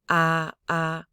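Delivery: "ah" held flat on the bottom note, like do; low flat tone. Shown as a demonstration. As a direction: keep "ah" level, down on do. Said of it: "This is a low flat tone".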